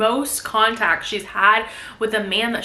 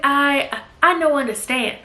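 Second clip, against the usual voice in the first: Italian accent attempt; 4 semitones higher than usual. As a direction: try an Italian accent and miss. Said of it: "like, an Italian accent".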